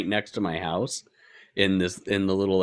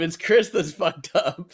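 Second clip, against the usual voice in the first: laughing; 8 semitones higher, slower than usual. Real, not acted. Laughing blaming the other host.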